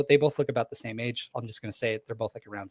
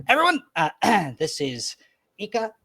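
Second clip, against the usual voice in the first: higher, louder proud dad voice; proud introduction; 4 semitones higher, 5 dB louder than usual. Acted. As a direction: present them with a proud flourish. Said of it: "he goes".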